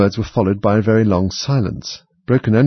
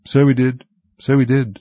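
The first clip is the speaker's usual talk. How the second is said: higher, louder rueful agreement; sighing; 5 semitones higher, 4 dB louder than usual. A narrator's reading. Gryphon agrees about the old master, sighing. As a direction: echo it with nostalgic regret. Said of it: "sighing in his turn".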